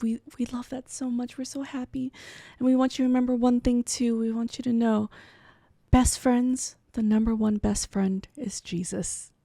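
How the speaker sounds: a touch of a tender blessing; father gently telling her to remember Jesus; soft earnest father. Retold or imitated. Dad's tender closing words.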